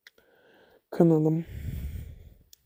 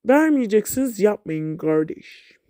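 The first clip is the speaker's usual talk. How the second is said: higher and louder, outraged protest; indignant complaint; 3 semitones higher, 4 dB louder than usual. Real, not acted. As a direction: cry out in protest at the refusal. Complaining at trade refusal.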